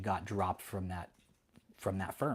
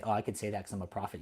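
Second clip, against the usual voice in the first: mocking quote; 4 dB quieter, faster than usual. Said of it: "has the fucking audacity to say".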